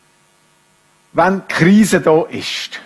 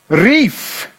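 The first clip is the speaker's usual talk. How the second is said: emphatic "rief", pitch popping up; called out; 3 semitones higher than usual. Shown as a demonstration. Preacher reading how God called Adam, called out. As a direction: lift "rief" like a mild call. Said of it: "das ist ein bisschen laut gesagt".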